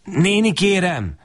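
put-on a small boy's high, timid begging; humble plea. A narrator's reading. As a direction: ask meekly, almost bowing. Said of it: "szólok be alázatosan". (alázatos, félénk kérés)

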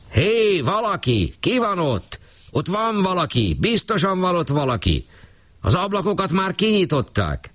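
high, excited calls from below; calling out from the street. A narrator's reading. Voices from the street calling up to the flat, anxious. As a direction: shout up at the windows in alarm.

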